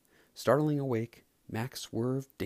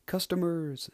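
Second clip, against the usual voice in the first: higher, louder eager shout; excited shout; 7 semitones higher, 3 dB louder than usual. Acted. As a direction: call it out with glee. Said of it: "shouted Sally".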